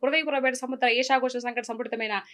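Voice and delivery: grand mythological villain dialogue, lightly voiced; S. V. Ranga Rao dialogue. Villain king taunting the warrior woman, grand declaiming. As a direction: roll out the old film speech like a stage king. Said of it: "అని SV రంగారావు గారు చెప్తారు".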